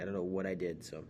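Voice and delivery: pinched, tight voice pushing through; straining to sound upbeat; strained voice. Real, not acted. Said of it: "my voice is so strained".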